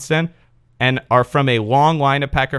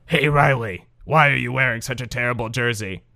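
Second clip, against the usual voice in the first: gravelly cartoon voice. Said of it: "not sure what that last voice was".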